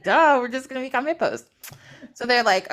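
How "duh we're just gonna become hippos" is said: as if it's blindingly obvious; mock "duh". Gods explaining silly myth logic, mock obviousness. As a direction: toss it off with a comic duh.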